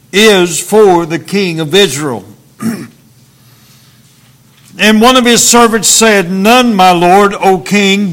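measured, solemn Bible reading; scripture reading. Acted. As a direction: read the King James passage with gravity. Reads scripture passage aloud.

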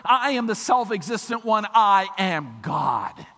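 insistent preaching, each sentence hammered; forceful divine declaration. Acted. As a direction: declare it as God, with absolute authority. Preacher voices God's self-declaration.

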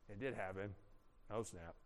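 hushed stunned realization; dawning dread. Acted. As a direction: let the dread sink in under your breath.

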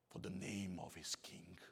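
hushed, unvoiced whisper for emphasis; a secret whispered to the congregation. Real, not acted. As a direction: drop to a breathy whisper on the key words. Preacher drops to whisper for emphasis.

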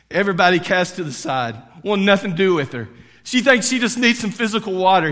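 preacher raising his voice about the outcast woman; emphatic preaching. Real, not acted. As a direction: press the story home.

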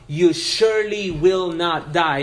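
SURELY and NOT firmly weighted, quoting the serpent; intense denial. Retold or imitated. Serpent contradicting God's promise to the woman, emphatic denial. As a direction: deny it with deliberate stress on "surely will not". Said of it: "the same kind of intensity to deny".

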